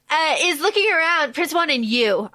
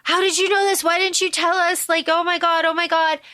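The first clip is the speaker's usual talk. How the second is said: higher-pitched mock panic; acted fretful outburst, lightly hammed; freaking out; 4 semitones higher than usual. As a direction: rattle off the questions in rising alarm. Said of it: "Crown Prince Juan starts freaking out".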